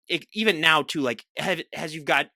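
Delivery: stumbling over the start of a question; tongue-tied. Real, not acted. Host fumbling a question to the guest, tongue-tied. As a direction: trip over the words, restarting, then give up. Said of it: "my tongue tied and twisted moment".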